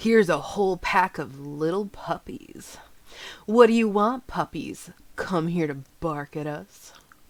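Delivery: loud sneering snarl in a street thug voice. Game master voicing a thug who spat as the party approaches, snarling. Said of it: "he snarls".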